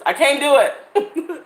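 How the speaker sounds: slow laughing protest; a real laugh through the words. Real, not acted. Laughing at own resolve.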